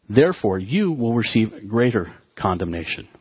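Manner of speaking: slow, measured reading aloud; scripture reading. Acted. Preacher reads the next woe to the congregation, slow scripture reading. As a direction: read the verse out slowly and deliberately.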